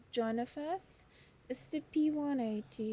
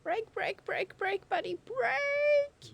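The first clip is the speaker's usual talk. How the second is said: nagging backseat driver; 7 semitones higher than usual. Real, not acted. Urging pilot during landing.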